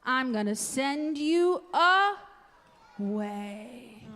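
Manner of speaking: hammed-up bossy king. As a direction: boom out like a spoiled king. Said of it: "And the king said".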